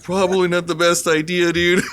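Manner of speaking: can barely get it out for laughing. Real, not acted. Son laughs retelling his dad's comeback to the border guard, giggling.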